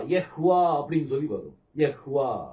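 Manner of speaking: யெஹ்வா with short ye, audible h, long vaa; sounded h. Shown as a demonstration. Teacher joining the letters for students, sounded h. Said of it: "அந்த ஹேவ் கூட நம்ம உச்சரிக்கணும்".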